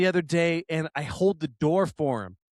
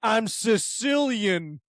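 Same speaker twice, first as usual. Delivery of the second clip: imitated Italian-American accent; 3 semitones higher than usual. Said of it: "you to go like".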